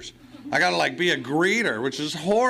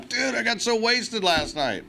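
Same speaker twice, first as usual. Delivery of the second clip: put-on slow, pitched-up drunk friend; drunk buddy bragging; 7 semitones higher than usual. Friend calling to brag about last night, slow and high. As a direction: drawl it out like a wasted buddy. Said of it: "friends call me all the time".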